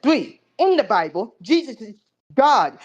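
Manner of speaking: slow, mangled mimic of the opponent; mocking his bad phonetics. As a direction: drag out the words in a mock bad accent. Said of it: "he said that in a shitty-ass fucking accent".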